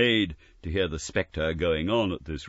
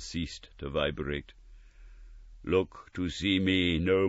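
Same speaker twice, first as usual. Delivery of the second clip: slow measured ghostly voice; a hint of final prophecy; slow solemn farewell. Ghost foretells visits.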